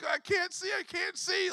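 high, lightly voiced little boy crying he can't see; quoting his frightened two-year-old to the church; imitating scared toddler. High mock-toddler voice.

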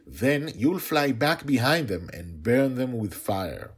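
put-on a kid sure her plan works; little girl's voice. A narrator's reading. Girl voiced in story.

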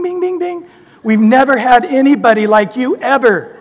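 high, loud, laughing disbelief; hammed-up astonished God; amazed God. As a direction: play it like a game show host. God amazed at record sinner.

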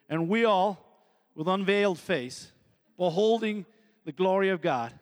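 badly faked Southern American accent; joking attempt at an American accent; terrible American accent. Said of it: "That's a terrible American accent".

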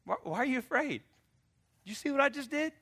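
high, playful smiling question. Acted. Jesus smiling at disciples after calming storm. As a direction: grin and show off gently. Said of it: "he turned and smiled and said".

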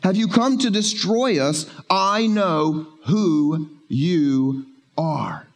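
slow, drawn-out hiss of a demon; a slowed-down menacing demon; lightly voiced demon, stretched out slow. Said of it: "my good demon voice".

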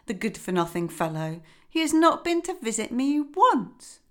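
lightly voiced fussy mother duck; a hint of a weary, busy mother; mildly fretful hen voice.

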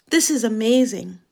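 a hint of British accent. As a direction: repeat it in a British voice. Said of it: "Excuse me?".

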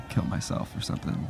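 breathy whisper, barely voiced. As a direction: drop to a whisper for the confession. Awkward confession of dark thought.

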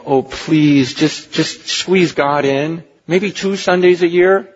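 wheedling, whining plea to squeeze God in; hammed-up begging preacher; mock pleading. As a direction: beg the congregation like a weak salesman. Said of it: "By saying / I beg".

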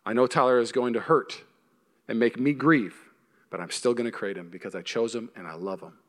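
God tenderly choosing a person who will reject him. Acted. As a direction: speak it gently as God would. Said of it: "a God who says".

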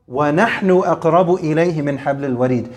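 measured, melodic Quranic chant in Arabic; Quran recitation. Acted. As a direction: recite the verse as in tajweed.

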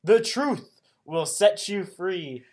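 loud, slow, drawn-out declaration; big slow slogan delivery; mock proclamation. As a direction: proclaim it grandly, stretching the words. Mock-quoting a theme line.

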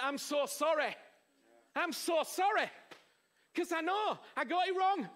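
imitating a remorseful thief; remorseful apology. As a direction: beg forgiveness from the cross. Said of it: "he actually went".

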